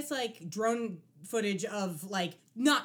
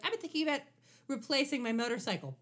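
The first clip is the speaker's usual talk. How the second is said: blasé; 4 semitones higher, faster than usual. Retold or imitated. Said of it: "Like, very blasé".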